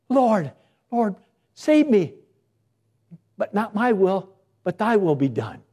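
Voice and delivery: a humble, contented plea to the Lord; humble prayer. Retold or imitated. Humble believer praying to God, meek plea. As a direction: pray it meekly, not your will. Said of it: "different ways you and I can cry to the Lord".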